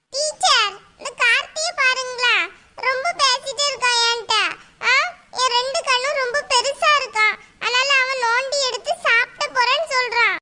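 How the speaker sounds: high-pitched put-on schoolgirl voice; tattling child. Pupil tells teacher on Karthi, tattling child voice. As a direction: whine a complaint to teacher as a little kid.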